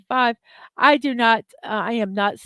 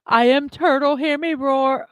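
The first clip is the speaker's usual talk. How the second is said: mock fierce turtle; 3 semitones higher, 3 dB louder than usual. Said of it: "that song".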